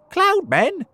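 high, loud startled question; alarmed surprise. A narrator's reading. James's friends hear about cloud men, alarmed. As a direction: exclaim it in acted alarm.

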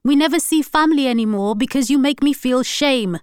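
loud, high angry shouting throughout; furious tirade. A narrator's reading. Wife raging at husband in fight, shouting. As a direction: she lashes out in fury.

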